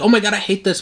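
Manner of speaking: a hammed-up fan groan; mock disgust. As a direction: act out the letdown, hammed up. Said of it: "I was like".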